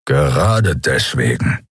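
low, slow growl. A narrator's reading. Keru answers Kai, low and slow growl. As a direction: growl two words, slowly. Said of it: "knurrte Keru".

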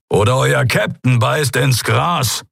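slow, menacing threat. Acted. Keru threatens to kill their captain, menacing threat. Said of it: "brummte er und drohte".

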